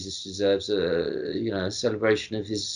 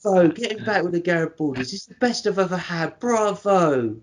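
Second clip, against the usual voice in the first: toothless character voice; 7 semitones higher than usual. Retold or imitated. Co-host relishing a favourite quote, toothless impression. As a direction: imitate someone with no teeth, pitched up. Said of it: "so satisfying to say in this voice".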